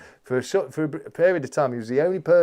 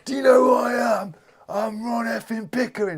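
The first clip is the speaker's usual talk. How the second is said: higher, louder mock road-rage yell; road rage shout; 11 semitones higher, 6 dB louder than usual. Retelling the viral road-rager shouting at the moped rider, mock yell. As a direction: bellow it like a furious hard man. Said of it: "He's like".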